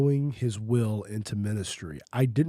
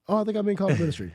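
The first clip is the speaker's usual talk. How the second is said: hopeful realization; 7 semitones higher, much faster than usual. Retold or imitated. Retold inner debate, second take.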